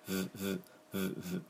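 "ブ、ブ" as very soft buzzed V with leaking air; short quiet V pulses on "ブ、ブ"; vibrated V. Shown as a demonstration. Teacher showing air leaking and vibrating, "ブ、ブ" as soft V buzz. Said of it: "フーと空気を漏らしてのを振動させて".

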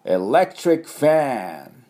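ファン in エレクトリックファン with the open "a" of English "fan", not ファン; model pronunciation. Shown as a demonstration. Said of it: "ファンをミャーの音ですよ". (「ファン」を英語の音で)

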